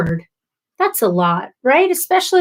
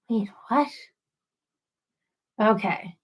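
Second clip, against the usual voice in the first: startled whisper; 2 semitones lower, 8 dB quieter than usual. Real, not acted. Surprised at a chat comment.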